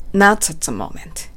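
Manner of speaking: "Not at" linked like "no-tsat", slowly; slow model phrase, hard T joining "Not at"; linked, strong T. Shown as a demonstration. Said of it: "英語のT強めのnot at". (「Not at」のTを強くつなげて、ゆっくり)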